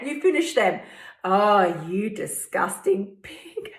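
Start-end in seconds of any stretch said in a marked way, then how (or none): 1.2-3.7 inner critic. Retold or imitated. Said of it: "It's the same voice".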